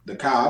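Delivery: "car" said as "cah", no R at the end; dropped R, imitated. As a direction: mimic their "car" with the R left off. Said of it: "You can say the R".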